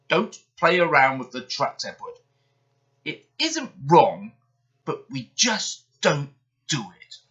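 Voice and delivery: pompous engine. Acted. Gordon lecturing Edward.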